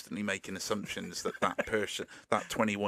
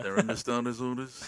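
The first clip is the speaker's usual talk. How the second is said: race announcer; 3 semitones higher than usual. Retold or imitated. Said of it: "this obsession with racing".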